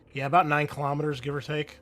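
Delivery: ordinary talk, nothing marked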